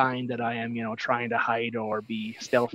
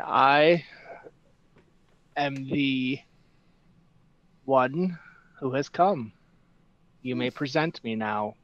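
P=A; grave pronouncement. Acted. Cleric announces himself to guards.

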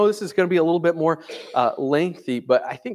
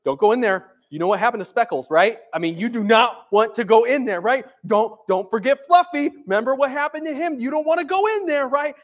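lightly voiced worried mouse, rising higher as it goes; mice warning each other; 3 semitones higher, 3 dB louder than usual. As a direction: warn a fellow mouse off the trap, pitch climbing. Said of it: "like the mice were communicating with each other".

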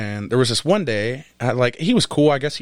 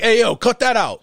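laughing scold; 7 semitones higher, 4 dB louder than usual. Retold or imitated. Telling Pills to stop.

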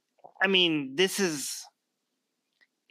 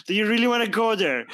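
challenging; 5 semitones higher, 4 dB louder than usual. Real, not acted. Mock challenge to critic from Pakistan.

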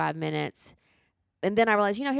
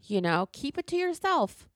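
high exasperated plea; 5 semitones higher than usual. Real, not acted. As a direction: lift it in disbelief. Pleading exasperation.

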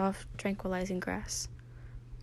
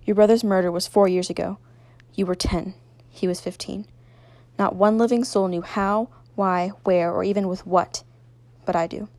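loud, commanding controller; forceful, imposing villain voice; deep voice; 10 dB louder than usual. A narrator's reading. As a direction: project each revelation as the unseen power. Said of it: "said the deep voice".

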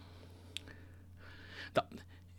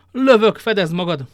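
higher, loud urgent warning shout; 5 semitones higher, 9 dB louder than usual. A narrator's reading. Athos warns D'Artagnan before firing, shouting. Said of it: "kiáltotta Athos".

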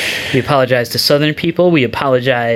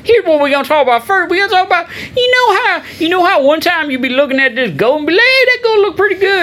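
hammed-up Southern accent; 13 semitones higher than usual. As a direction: ramble like a hammed-up Southern yokel. Host keeps the Southern voice.

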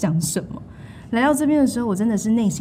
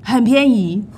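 put-on American accent. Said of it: "我们美国没有在吃土".

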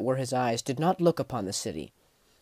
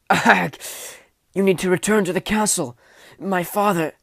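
urgent, wounded; 5 semitones higher, 5 dB louder, slower than usual. A narrator's reading. Wounded knight urging the king.

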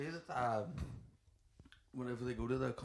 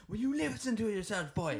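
higher, louder mock telling-off; mock scolding; 10 semitones higher, 5 dB louder than usual. Retelling a show scene, higher louder mock scolding. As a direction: scold him in a hammed-up high voice. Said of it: "And he's all".

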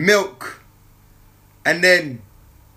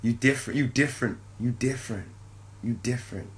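hushed amazed; 8 semitones lower, 11 dB quieter than usual. Retold or imitated. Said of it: "I'm like".

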